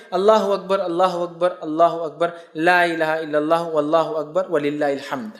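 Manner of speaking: measured, devout chanting of the takbir; takbir recitation. Shown as a demonstration. Teacher showing listeners the Eid takbir, devout chant. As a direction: recite each Allahu akbar steadily, as in the mosque. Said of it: "آپ جو تکبیر بیان کر رہے ہیں".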